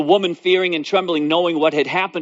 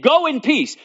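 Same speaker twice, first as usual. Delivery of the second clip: voice of Jesus; 10 semitones higher than usual. Acted. Jesus's words quoted.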